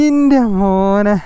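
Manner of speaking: drawn-out amazed cry; awed exclamation. Real, not acted. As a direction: stretch it out in wonder.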